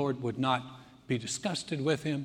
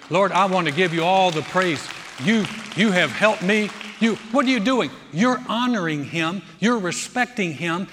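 louder, emphatic praise; impassioned preaching; 6 dB louder than usual. Acted. Preacher showing how to give God praise, impassioned and emphatic. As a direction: declare it firmly to the congregation.

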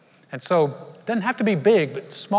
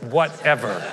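"Whatever." tossed off with a laugh, a little lower; disdainful whatever; 3 semitones lower, slower than usual. Shown as a demonstration. Pastor demoing the eye-roll "Whatever.". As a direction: roll your eyes as you say it. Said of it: "you have to say it with an eye roll and a hair flip".

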